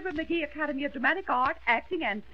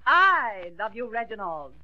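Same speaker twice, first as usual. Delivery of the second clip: loud, drawn-out I, name falling away; pupil's wrong reading; 5 dB louder, slower than usual. Acted. Pupil repeats the coach's love line, overemphatic. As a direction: overdo the I, let Reginald drop. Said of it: "You got the wrong idea".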